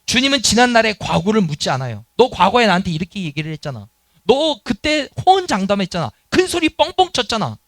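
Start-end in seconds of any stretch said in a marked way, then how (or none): 2.2-7.6 mock reproach. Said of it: "과거에 대해서 책망하지 않는다".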